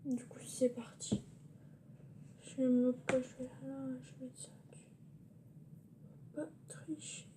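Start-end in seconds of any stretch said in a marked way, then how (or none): 0.0-1.2 whispering. Real, not acted. Parents asleep, whispering. 4.0-7.3 hushed whisper. Real, not acted. Parents asleep, whispering.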